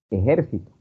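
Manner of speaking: "ejército" stressed on JÉR; "ejército" with the punch on its second syllable. Shown as a demonstration. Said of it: "eh, pronunciaban".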